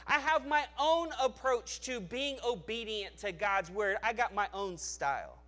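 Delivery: mock the person who makes their own rules; defiant doubter. Preacher mimicking a churchgoer who rejects God's standard, mocking.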